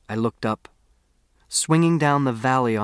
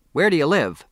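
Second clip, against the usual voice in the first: put-on sudden old woman's question; 6 semitones higher, 5 dB louder than usual. Old woman calls out unexpectedly.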